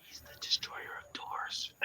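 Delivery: whispered, soft and secretive; mock whisper. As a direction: hush it like a secret title. Joking epithet whispered.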